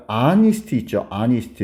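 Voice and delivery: "honest" said "AH-nist", H dropped; silent H. Shown as a demonstration. Teacher showing a silent letter, "honest" without the H. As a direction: start "honest" straight on the vowel. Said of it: "이 H가 발음이 안 되거든".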